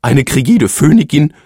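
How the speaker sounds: langsam, träumerisch wünschend; träum dich weg; sehnsüchtiger Phönix. A narrator's reading. Phönix wünscht sich sehnsüchtig etwas. (der Phönix träumt von drei Wünschen)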